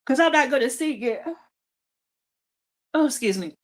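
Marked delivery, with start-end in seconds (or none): 2.9-3.5 speaking through a yawn; words stretched by a yawn. Real, not acted. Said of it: "I'm yawning because I'm tired".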